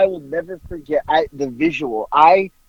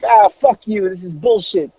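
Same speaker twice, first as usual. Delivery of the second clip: retold defiant outburst; 3 semitones higher than usual. Woman refusing an officer's order to sit, mock defiant. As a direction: curse him off as the fed-up woman.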